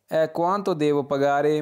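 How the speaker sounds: very slow, each syllable clear; slow model sentence. Shown as a demonstration. Teacher reading the Italian phrase for students, very slow. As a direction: read it out slowly for learners to repeat. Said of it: "मुझे कितनी अदायगी करनी है".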